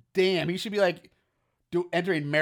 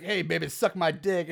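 romantic version. Pretend. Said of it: "the romantic, like, "Let's role play".

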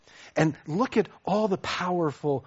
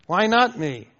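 through gritted teeth; 4 semitones higher, 6 dB louder than usual. Retold or imitated. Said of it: "through gritted teeth, I admit".

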